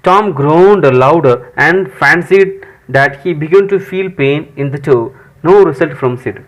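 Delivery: slow, deliberate English reading; story read-aloud. Acted. Teacher reads Tom's groaning scene to students, slow read-aloud. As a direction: read it out word by word for learners.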